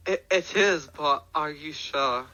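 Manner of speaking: light put-on British accent, hesitant; accidental British accent. Doubtful inventor questioning the patron, slight British accent. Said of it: "I don't know why I did that accent".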